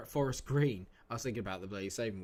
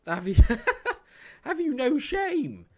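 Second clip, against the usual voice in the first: hammed-up scandalised cry; mock indignation; 12 dB louder than usual. Real, not acted. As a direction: scold them like a shocked aunt.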